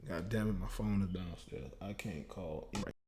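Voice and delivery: low, very soft muttering; real under-the-breath grumble; grumbling to oneself. Real, not acted. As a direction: mutter an annoyed aside. Grumbling to self about phone.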